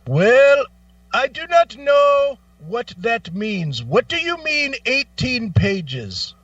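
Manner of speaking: high, slow, baffled helpline voice; mock confused agent. Agent to frustrated caller, high slow puzzled mock voice. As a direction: play the rep who just doesn't get it. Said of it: "he goes".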